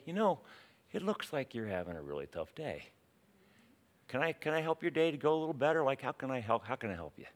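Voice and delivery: soft, caring offer of help; gentle concern. Pretend. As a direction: play a kindly customer, easing off softly. Voicing the kind alternative to cashier.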